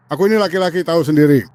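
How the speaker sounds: talking through chattering teeth. Real, not acted. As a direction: teeth clacking from the heat. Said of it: "Suara apa itu?".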